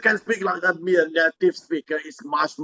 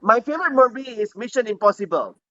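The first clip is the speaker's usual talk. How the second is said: lightly voiced student, higher and quick; student Kumari answering; 4 semitones higher, faster than usual. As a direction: give a brisk mock exam answer.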